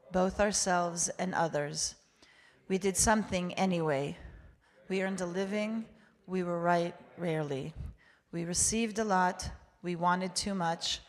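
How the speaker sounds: measured litany in short, separate phrases; congregational recitation. Real, not acted. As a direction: lead a group reading, steady and even. Leads congregation reading English confession.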